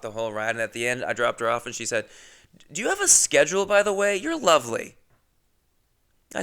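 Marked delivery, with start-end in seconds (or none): 2.7-5.0 high, gushing rider voice; mock sweet passenger; imitating a female passenger. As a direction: pitch it up as a complimentary customer. Voicing passenger Lauren's sweet request.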